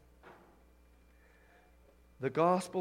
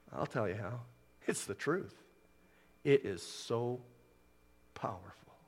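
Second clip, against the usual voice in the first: much lower, dropping to a whisper; hushed awe; 5 semitones lower, 7 dB quieter than usual. Real, not acted. Preacher marvelling at the power of truth, hushed awe. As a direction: let the last word fall to a reverent whisper.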